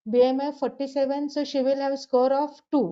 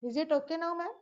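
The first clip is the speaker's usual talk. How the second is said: barely audible; 4 semitones higher, 8 dB quieter, faster than usual. Real, not acted. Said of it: "Little more louder if you can go".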